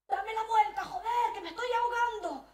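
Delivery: high, loud choking cry; frantic high yell to be turned over; panicked shout. Retold or imitated. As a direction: yell it like you're suffocating. Helpless father shouting for help.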